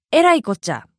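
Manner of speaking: えらいこっちゃ with the accent on えら. Shown as a demonstration. Teacher showing a Kansai phrase to listeners, えらいこっちゃ accented on えら. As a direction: put the weight on えら in えらいこっちゃ. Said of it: "えらにアクセント".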